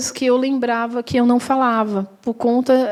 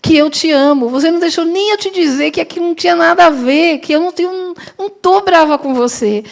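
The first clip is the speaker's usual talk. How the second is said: reassuring friend; 5 semitones higher than usual. Retold or imitated.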